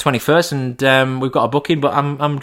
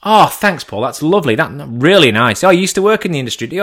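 higher, lightly voiced polite receptionist; restaurant staffer; 4 semitones higher than usual. Receptionist answering Paul's call, lightly voiced. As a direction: play the chirpy girl on the phone.

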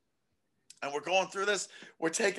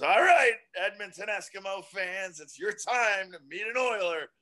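P A announcer; 2 semitones higher than usual. Retold or imitated. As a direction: call it out like the stadium announcer. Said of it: "the, uh, P A announcer goes".

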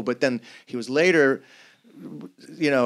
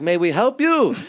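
put-on higher-pitched Jewish accent; lilting Jewish-accented question, pitched up; 7 semitones higher, 3 dB louder than usual. Synagogue museum staff approaching a visitor, Jewish accent. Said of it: "That's my Jewish accent".

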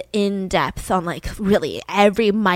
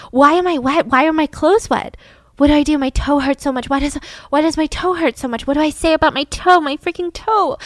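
panicked; 4 semitones higher than usual. Retold or imitated. Candy's panicked inner monologue.

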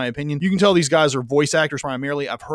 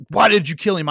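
a mock angry demand, a little higher and louder; angry outburst; 5 semitones higher, 4 dB louder than usual. Charlie Sheen's cop yelling at his girlfriend, mock angry. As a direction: snap it at her like a furious cop. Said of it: "gets very angry at her and says".

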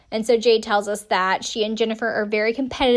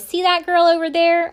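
put-on higher, louder Southern pageant-girl voiceover; voiceover quote; 7 semitones higher, 6 dB louder than usual. Quoting the show's voiceover in a Southern accent. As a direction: read it like a dramatic TV voiceover. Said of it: "we hear a voiceover".

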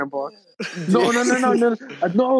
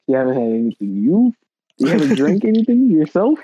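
mock cop. Acting out the cop questioning.

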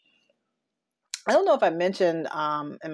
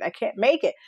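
rising despair; 4 semitones higher than usual. Retold or imitated. Spiralling self-talk quote.

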